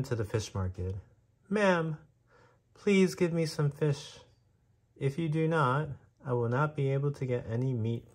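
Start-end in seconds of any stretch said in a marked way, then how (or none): 1.5-8.1 high, pleading mouse voice; crying mouse. A narrator's reading. Mouse begs the fish seller for fish, high and desperate. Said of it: "the mouse cried".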